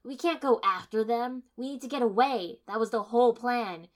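loud, insistent pleading to leave; forceful arguing. A narrator's reading. Kiba urging the team to run, loud and insistent. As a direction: drive every reason home loudly.

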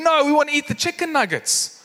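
high-pitched mock insistence; excited kids. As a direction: imitate kids clamouring for nuggets. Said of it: "these kids now get so excited".

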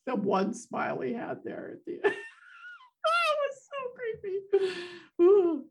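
high, squealing through laughter; giggly, creeped-out delight; helpless laughter. Real, not acted. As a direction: gush while cracking up. Laughing over creepy smile.

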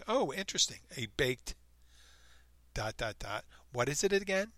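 high, bright fake interest; mock fascination. Pretending to a girlfriend's parents, with mock fascination. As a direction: play dumb with exaggerated curiosity.

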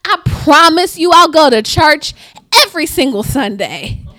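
loud, pleading mock prayer; bargaining prayer. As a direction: play the believer haggling with God. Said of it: "we try to use those same conditional statements on, on God".

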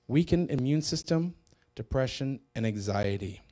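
measured teaching read-aloud. Acted. Preacher reads a borrowed counseling piece to viewers, reading aloud. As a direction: read it out in deliberate phrases.

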